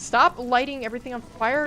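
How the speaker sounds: normal talking voice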